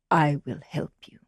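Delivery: hushed, secret whisper; whispering cow. Acted. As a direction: whisper a kind promise. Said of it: "the cow said".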